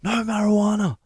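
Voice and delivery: very high, loud hysterical denial; going off his head. Retold or imitated. Him protesting to the officer searching his pocket, going off his head. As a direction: screech each denial frantically. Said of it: "I'm going off my head".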